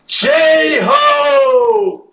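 high, stretched-out yell; celebratory shout. Real, not acted. Breaker cheering a buyer's nice hit, celebratory shout. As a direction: holler it in celebration.

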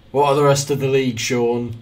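quick, loud northern call; Sean impression. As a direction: fire off the question in a put-on northern voice. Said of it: "I sound like Sean".

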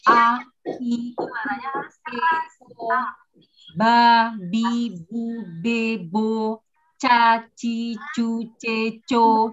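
each vowel and syllable mouthed wide and crisp; teacher drilling clear syllables; clear articulation drill. Shown as a demonstration. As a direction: open the mouth fully on every sound. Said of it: "Sama dengan huruf ketika kita berbicara".

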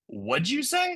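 high-pitched question, as if across a yard; high "say that again?" holler, held back; mock calling back. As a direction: imitate shouting back without the volume. Calling back to the yelling contractor.

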